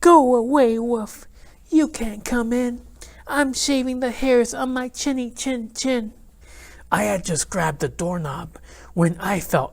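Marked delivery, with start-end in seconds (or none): 0.0-6.1 cocky little pig, high and defiant; pig yelling back. Acted. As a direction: shoo the wolf off in a high piggy voice. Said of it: "He yelled back".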